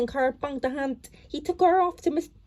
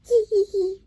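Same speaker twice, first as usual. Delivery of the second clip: miserable laugh; 4 semitones higher, 3 dB louder than usual. A narrator's reading. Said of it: "she said miserably".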